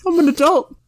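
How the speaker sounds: put-on high, eager kid voice; little boy voice. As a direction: play a pushy little kid. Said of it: "hey, kid".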